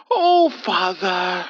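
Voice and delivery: slow mild gentle reassurance. A narrator's reading. Old man gently reassuring the priest. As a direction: ease him calmly. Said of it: "Hubert gently told the man".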